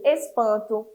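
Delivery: normal talking voice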